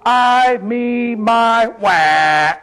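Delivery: mock pity-party wail. Preacher mocking Naomi's pity party, sing-song mock whining. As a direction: mimic a self-pitying crybaby, each word held. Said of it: "having a little pity party for herself".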